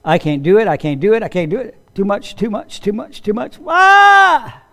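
stuck-record worry spiraling to a cry; panicking mind. Acted. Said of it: "like the old record player".

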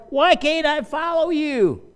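put-on high, slow childlike whine; little kid. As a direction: plead like a small child left behind. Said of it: "Does that sound like a little kid?".

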